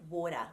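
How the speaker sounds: lightly tapped middle of water. Shown as a demonstration. Coach repeats example, tapped water. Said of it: "just a little tap of the tongue".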